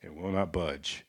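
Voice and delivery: mock-solemn plea, slowing at the end; pastor voice. Co-host voices man pleading to the Lord, mock pastor voice. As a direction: punch it like scripture, then drop. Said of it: "do it in your best pastor voice".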